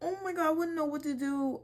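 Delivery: high, laughing shrieky disbelief; shocked laughing. Real, not acted. Reacting to a shocking story, laughing in disbelief. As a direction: laugh it out in horror.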